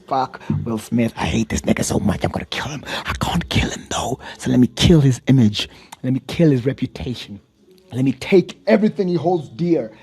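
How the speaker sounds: low, half-whispered plotting, rising at the end; mock Jada scheming. Podcaster imitates Jada plotting revenge, hushed then rising. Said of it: "She's like".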